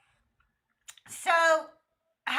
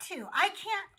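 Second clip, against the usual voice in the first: exasperated insistence; 4 semitones higher than usual. Retold or imitated. Wife insisting to in-laws she doesn't control her husband, exasperated. Retells exasperated protest to relatives.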